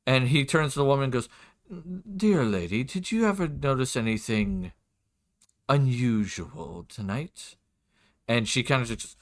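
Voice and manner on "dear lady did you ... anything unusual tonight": lightly voiced courtly lord, drawing out the key word; a hint of a formal, probing nobleman; lord's voice. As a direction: question a servant with measured courtesy. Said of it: "do my best for his voice".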